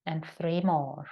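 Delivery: calm yoga breath cues with long pauses; sparse, unhurried breathing instructions; guided breathing. Acted. Leads a breathing exercise.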